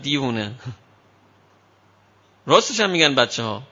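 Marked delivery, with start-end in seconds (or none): 0.0-0.5 put-on sweet little girl.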